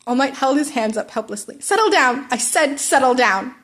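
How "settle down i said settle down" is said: louder, firm shouted order; yell. Acted. All Might yells to calm the noisy class. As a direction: raise your voice over the noise. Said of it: "He had to yell".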